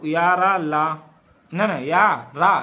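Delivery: slow down and punch या, रा, ला; slow emphatic letters. Shown as a demonstration. Teacher correcting himself for the class, slow and emphatic. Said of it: "ठीक है".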